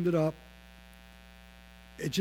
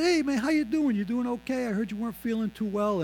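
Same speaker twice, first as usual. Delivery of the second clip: cheery visit; 4 semitones higher than usual. Retold or imitated. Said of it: "bring some good cheer to Gary".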